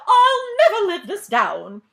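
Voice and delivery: high loud slow wail, half laughing; despairing wail of embarrassment; First Lady wailing. A narrator's reading. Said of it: "cried the First Lady".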